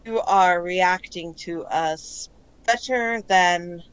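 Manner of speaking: calm collective voice. Acted. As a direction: speak deliberately as a calm chorus inside someone's head. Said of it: "you hear this voice".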